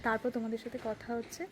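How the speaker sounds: hushed temple voice; soft, subdued vlog chat; speaking softly. Real, not acted. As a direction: talk quietly to the camera in a peaceful temple. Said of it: "আমি খুব আস্তে আস্তে কথা বলছি".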